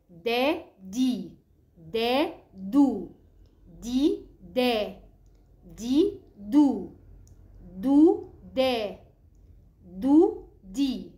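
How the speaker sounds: loud drawn-out pairs of دا، دي، دو, first rising, second falling; letter sound drill. Shown as a demonstration. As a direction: alternate the دال syllables with long, emphatic vowels. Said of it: "هنقوله بقى".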